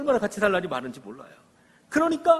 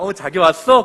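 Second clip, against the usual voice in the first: eager greeting; 2 semitones higher, 10 dB louder than usual. Acted. Acting out greeting wife home.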